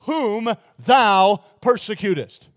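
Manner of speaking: slow, solemn voice of the Lord; the voice of Jesus. Retold or imitated. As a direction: speak each word slow and grave. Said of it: "And he said".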